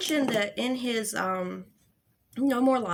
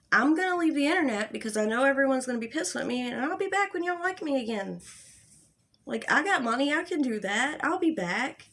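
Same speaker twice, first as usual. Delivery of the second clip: higher, hurried sing-song mockery; mock quote pitched up, rattled off; mocking imitation; 3 semitones higher, faster than usual. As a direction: mimic a careless, self-satisfied excuse. Mockingly voices his supposed thinking.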